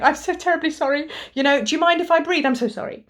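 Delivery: lightly lampoon an over-apologetic Brit. Retold or imitated. Mocking British politeness to viewers, lightly hammed-up apology. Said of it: "being sorry for everything".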